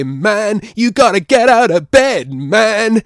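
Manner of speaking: loud, high croaky caricature; mock a croaky man trying to sound cool; Jordan Peterson impression. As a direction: push it high and loud, hammed-up. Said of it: "he'll say".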